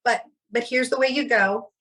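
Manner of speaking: imitating a would-be cool explainer; trying to be cool. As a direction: act casually sure of yourself, starting high. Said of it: "I was trying to be cool".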